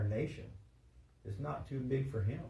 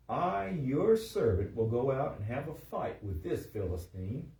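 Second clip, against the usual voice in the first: raised, emphatic reading of David's pledge; dramatic scripture reading; 3 semitones higher, 4 dB louder than usual. A narrator's reading. David volunteers to Saul, dramatic scripture reading. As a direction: declaim it with a high, drawn-out opening.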